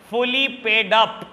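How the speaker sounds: fully paid up said very slowly, word by word; teacher dragging out fully paid up for emphasis; slow stressed reading. Shown as a demonstration. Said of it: "हर word पे जोर दे के पढ़ता था".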